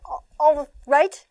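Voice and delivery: put-on mother answering her child's I hate you; firm parent. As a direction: say it like a steady mom. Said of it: "You're gonna say".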